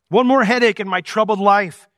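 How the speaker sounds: mock angry grumble. Jephthah-like husband complaining, lightly angry grumble. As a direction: grumble like a put-upon man. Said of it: "gotten angry like Jephthah".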